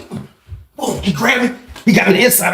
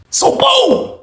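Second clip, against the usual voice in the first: sharp boom. Real, not acted. Story turn.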